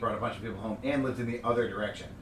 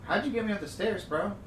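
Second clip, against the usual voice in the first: incredulous; 9 semitones higher than usual. Retold or imitated. Incredulous questioning of friend.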